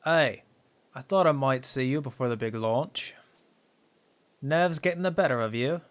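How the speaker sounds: put-on lightly accented old flight coach. Old coach greeting a trainee before launch, lightly accented role. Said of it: "I don't know what accent to use for him".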